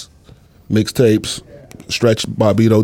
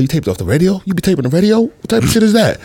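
mocking, incredulous questions climbing higher and higher; Dame; 10 semitones higher, faster than usual. Friend making fun of taping the radio, high mocking disbelief. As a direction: imitate a friend making fun, pitch rising to a high squawk. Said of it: "that's a good Dame impression".

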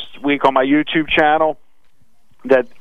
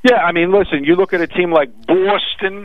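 Boston accent, hammed up a bit; a clumsy stab at a Boston accent; bad Boston accent; 5 semitones higher than usual. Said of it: "It's my bad Boston accent".

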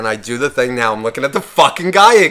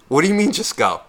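imitating the girl; 5 semitones higher than usual. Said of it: "And she goes".

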